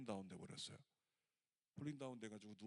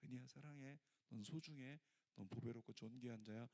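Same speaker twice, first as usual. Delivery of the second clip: soft, hushed voice of the Lord; whispered love; 2 semitones lower, 4 dB quieter than usual. Retold or imitated. The Lord whispering to the sister, softly. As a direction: say it softly into her ear. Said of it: "귓가에 속삭이셨대요".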